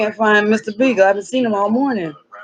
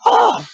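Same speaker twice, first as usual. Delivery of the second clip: imitated noise "ah"; 13 semitones higher, 3 dB louder than usual.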